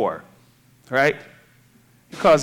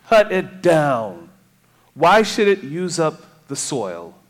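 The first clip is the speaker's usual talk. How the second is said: emphatic, slowed scripture reading; 2 semitones higher, 5 dB louder than usual. Acted. Preacher reading the fig tree parable to congregation, emphatic. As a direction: read it out firmly, lingering on key words.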